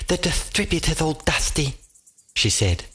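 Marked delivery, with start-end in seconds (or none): 0.1-1.8 lisping through a mouthful; talking with a mouthful of food; mouth full. Acted. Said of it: "through a mouthful of crispy scales".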